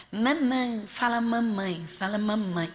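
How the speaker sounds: lightly voiced mother teaching a baby to talk; coaxing mother. Mother urges her baby to speak, gently acted coaxing. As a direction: coax slowly, drawing out each "mamãe".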